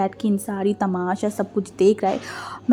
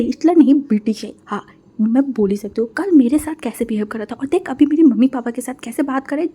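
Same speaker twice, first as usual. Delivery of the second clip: louder, heated complaining; indignant rant; 2 semitones higher, 4 dB louder than usual. Acted. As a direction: vent about the stingy father-in-law. Groom rants about father-in-law. (ससुर की शिकायत करता दामाद, गुस्से में बड़बड़ाता)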